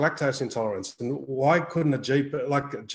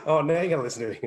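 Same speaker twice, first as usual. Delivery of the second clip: mock sarcastic; 3 semitones higher, much faster than usual.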